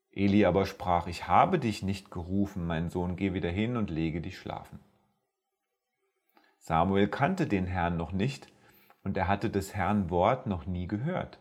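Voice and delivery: measured, solemn scripture reading to listeners; Bible story reading. Acted. Preacher reading First Samuel to his podcast audience, solemn reading.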